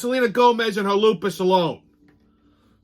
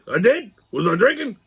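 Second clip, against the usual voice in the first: puzzled sidekick, slightly raised voice; Pops; 3 semitones higher, 3 dB louder than usual. Acted. Sidekick doubting his own suggestion, puzzled character voice. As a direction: question it as the befuddled sidekick. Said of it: "I consulted my trusty sidekick, Pops".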